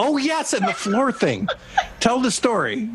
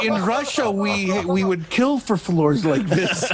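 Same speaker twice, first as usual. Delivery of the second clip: put-on Russian accent; slower than usual. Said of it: "he really milks that Russian thing".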